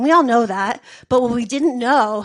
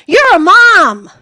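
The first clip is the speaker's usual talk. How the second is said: loud, slow, high mock yell; mock shout; 7 semitones higher, 12 dB louder, much slower than usual. Friend catching her doing a line, shocked yell. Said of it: "my friend goes".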